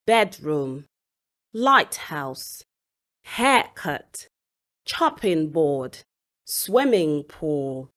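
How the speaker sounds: BED-room, LIGHT-house, HAIR-cut, CHOPPING board, SWIMMING pool; first-word stress. Shown as a demonstration. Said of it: "stress is usually on the first word".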